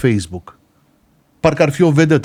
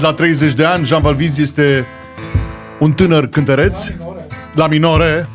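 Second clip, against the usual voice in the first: stage announcer, introducing a singer; announcer intro. Acted. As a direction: present him like a showman. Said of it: "Să fac introducerea".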